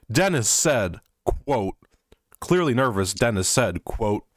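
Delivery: mock dramatic reading. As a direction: ham up the gravitas, half laughing. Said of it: "really dramatic lead up".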